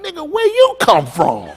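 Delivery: high, slow astonished question; mock astonishment. Man sees his young photo, high astonished voice. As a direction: gape at the young you. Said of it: "I like".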